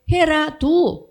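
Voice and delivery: 해라, do said very slowly and loud; God's command 해라, do spelt out slowly; slow commanding stress. Shown as a demonstration. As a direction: drag out 해라, do like a command. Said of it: "이 약속의 말씀에".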